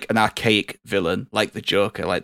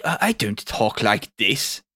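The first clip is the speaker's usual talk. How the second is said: put-on Somerset accent; slower than usual. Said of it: "Geordie accent or Somerset accent".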